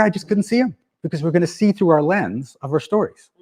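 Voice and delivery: ordinary talk, nothing marked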